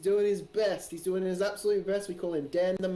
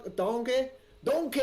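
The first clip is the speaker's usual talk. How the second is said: a higher, hammy "donkey" in a Scottish Shrek voice; 6 semitones higher than usual. Acted. Streamer can't help saying "donkey" like Shrek. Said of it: "saying it like Shrek".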